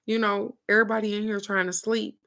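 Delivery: imitating a no-nonsense talking-to; stern cousin. Cousin to crying three-year-old at night, retold stern scolding. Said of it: "she told her".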